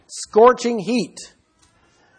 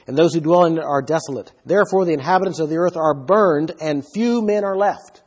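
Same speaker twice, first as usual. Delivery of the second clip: scripture reading. Acted. Reads Isaiah passage aloud.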